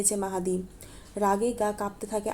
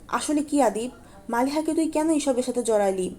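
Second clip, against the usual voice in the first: angrier; 3 semitones higher than usual. Acted. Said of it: "Rakib আরও বেশি ক্ষেপে যায়".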